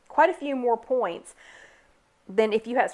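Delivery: words broken by a hiccup. Real, not acted. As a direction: talk through the hiccups. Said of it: "sorry, the hiccups".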